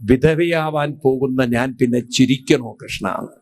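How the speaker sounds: a touch of sobbing in the question, barely voiced; retelling Draupadi bursting into tears, understated; mild tearful outburst. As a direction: Draupadi to Krishna, a hint of weeping. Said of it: "പൊട്ടിക്കരഞ്ഞിട്ട് പറഞ്ഞു".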